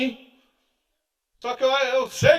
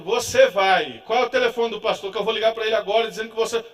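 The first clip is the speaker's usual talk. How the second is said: insistent wife; 6 dB louder than usual. Retold or imitated. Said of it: "Eu digo".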